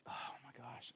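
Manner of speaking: breathless whisper of disbelief; whispered aside. Real, not acted. Preacher reacting to the scripture in a stunned whisper. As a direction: let it slip out under your breath.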